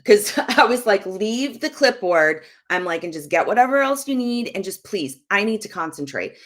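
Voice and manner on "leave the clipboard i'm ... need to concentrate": put-on mildly short with an interrupting child; retold terse, impatient brush-off; abrupt. Mom brushing off her son while she works, abrupt. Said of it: "the way I said it was very abrupt".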